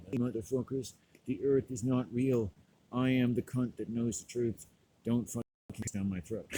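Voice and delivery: someone imitating the ranter, mildly hammed-up; mock self-impression. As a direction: parody your own preachy rant in a measured voice. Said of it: "pretend like they're me".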